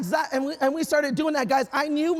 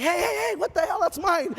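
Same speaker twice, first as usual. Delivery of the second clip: higher-pitched startled protest; mock alarm; 4 semitones higher than usual. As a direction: protest as if your bags are being taken. Acting alarm at luggage being taken.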